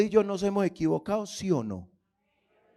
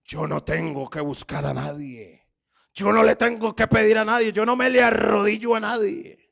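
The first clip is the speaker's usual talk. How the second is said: puffed-up proud voice. Retold or imitated. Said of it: "y hasta cambia la voz, y se hincha el pecho".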